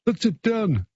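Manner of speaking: a mock Greek accent, hammed-up and badly done; a quick, silly stab at a Greek accent; terrible Greek accent. Radio host hinting at the Greek drink, in a bad mock Greek accent. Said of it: "That's my Greek accent. It's terrible".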